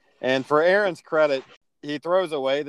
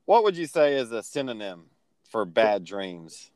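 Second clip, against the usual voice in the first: slow leading question; 4 semitones lower than usual. Shown as a demonstration. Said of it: "I have to ask you something here".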